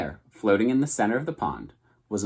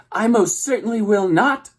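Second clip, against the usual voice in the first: high, loud indignant squawk; squawking refusal; 12 semitones higher, 6 dB louder than usual. A narrator's reading. Goose refusing to take the gosling, loud high squawk. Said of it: "squawked the goose".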